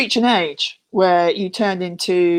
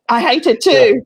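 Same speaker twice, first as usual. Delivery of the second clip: mock agreement; 3 semitones higher, 5 dB louder than usual. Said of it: "We've gone".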